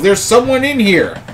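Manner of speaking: high-pitched mock yell, held back in volume; acted yell. Robed figure alerting others to intruders, acted yell. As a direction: call out the alarm as the robed figure. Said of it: "the figure yells".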